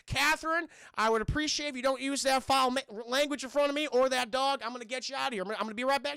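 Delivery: high, loud prim reprimand; mock scolding. Agent to Catherine in the pit, high flustered scolding. Agent admonishes trapped victim.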